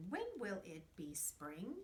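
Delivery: When will it be spring? rising at the end; question voice going up. Shown as a demonstration. Teacher showing the kids how a question rises at the end. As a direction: let the pitch climb on spring. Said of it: "And your voice goes up".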